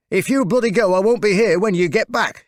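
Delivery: a narrated wife's defiant ultimatum, lightly voiced; defiant grandmother. A narrator's reading. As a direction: grandmother defying her husband at the gate, mildly voiced defiant threat. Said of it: "My grandmother stood defiant".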